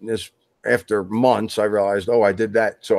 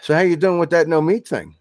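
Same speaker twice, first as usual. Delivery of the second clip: mock-innocent sarcastic question, pitched higher; 5 semitones higher than usual. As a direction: needle them with a teasing question. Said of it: "he was being totally sarcastic".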